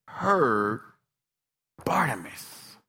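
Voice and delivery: slow, hushed whisper; soft whisper. Shown as a demonstration. Preacher hushes the crowd, whispered name. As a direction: drop to a whisper. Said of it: "God's quiet voice".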